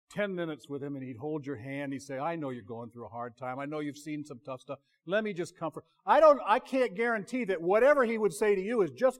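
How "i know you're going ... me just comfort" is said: sweetness and light. Acted. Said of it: "all sweetness and light".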